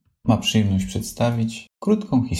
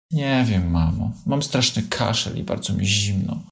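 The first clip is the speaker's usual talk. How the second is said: understated sadness. Acted. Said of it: "ze smutkiem w głosie odparł Lisek".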